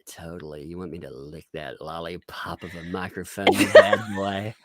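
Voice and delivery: hushed, teasing mock-seductive purr; breathy mock temptress; mock sexy ASMR voice. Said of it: "she tried to do sexy sounds like".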